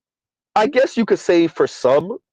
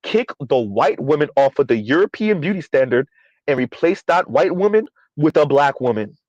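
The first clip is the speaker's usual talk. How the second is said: a touch slower and more deliberate; slow restatement. Shown as a demonstration. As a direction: repeat it measuredly so each phrase lands. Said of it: "Let's say that is again slow".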